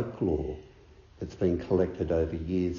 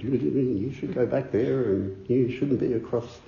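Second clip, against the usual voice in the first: scolding; 6 semitones higher, 4 dB louder than usual. Retold or imitated. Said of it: "scolded me very severely".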